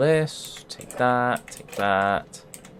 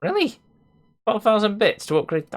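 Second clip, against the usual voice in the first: indignant disbelief; 11 semitones higher than usual. Real, not acted. Gamer balking at upgrade cost, shocked disbelief. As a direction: pitch leaps high in outraged surprise.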